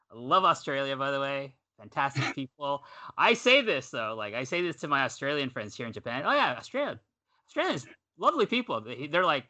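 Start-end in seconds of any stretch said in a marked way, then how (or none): 6.2-8.8 high, quick gushing praise. Retold or imitated. Telling Japanese friends, gushing high and quick about Australia.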